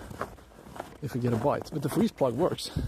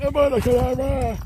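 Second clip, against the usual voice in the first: wizard voice; 10 semitones higher, 5 dB louder than usual. Pretend. Repeats spell, different voice.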